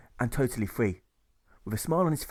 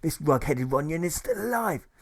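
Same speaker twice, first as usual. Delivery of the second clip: ranting marshal; 4 semitones higher than usual. Acted. Marshal rants at the crowd.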